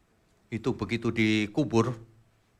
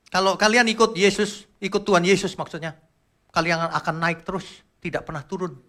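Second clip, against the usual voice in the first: a loud, higher, pumped-up motivator promise; mocking motivator preacher; 8 semitones higher, 6 dB louder than usual. Preacher mocks motivational sermons with a loud hyped promise. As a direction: ham up a cheap hype preacher. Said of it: "motivator biasa-biasa saja".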